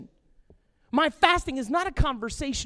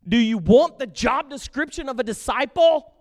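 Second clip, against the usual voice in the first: loud, higher preacher call; rousing question; 4 semitones higher, 10 dB louder than usual. Real, not acted. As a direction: fire the question at the crowd. Preacher asking the crowd.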